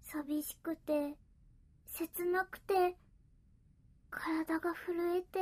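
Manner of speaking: slow, aching and soft; lonely, slow and soft. Acted. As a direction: let the loneliness slow every word. Cat overwhelmed by loneliness.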